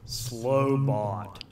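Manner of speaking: monotone machine voice; robot voice. Shown as a demonstration. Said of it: "I'm gonna do a robot voice".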